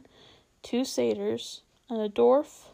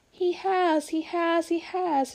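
put-on high squeaky young squirrel; little squirrel blurting out at the table, high and squeaky; squeaking; 7 semitones higher, 3 dB louder, slower than usual. A narrator's reading. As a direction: squeak it out in a panic. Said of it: "it squeaked".

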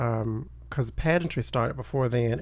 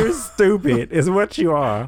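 put-on old-time announcer voice; 6 semitones higher, 6 dB louder, slower than usual. Mimicking the old voice.

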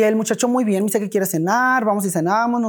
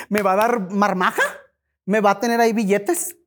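mock money-eager questions, lifting at the ends; playing the millionaire; 3 semitones higher than usual. Woman joking to her date about the glove box, playing the millionaire. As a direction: play at expecting riches, each question rising. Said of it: "yo me hacía la millonaria".

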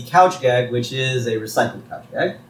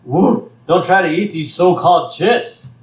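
tag; 5 semitones higher, 3 dB louder than usual. Retold or imitated. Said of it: "And he goes".

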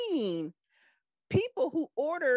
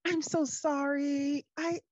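smirking apology; 4 semitones higher than usual. Retold or imitated. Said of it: "she, like, smirks like".

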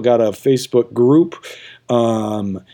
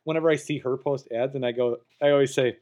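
hushed; 6 dB quieter than usual. Real, not acted. Confessing a mean joke.

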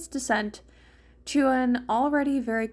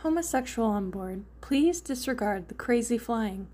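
reading imaginary text. Acted. Snarky friend inventing a bumper sticker, reading it out. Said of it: "read imaginary lines of text".

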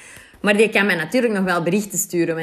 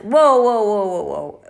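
voice rising in protest; 3 dB louder, slower than usual. Retold or imitated. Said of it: "Je hoort mijn stem hier weer omhoog gaan".

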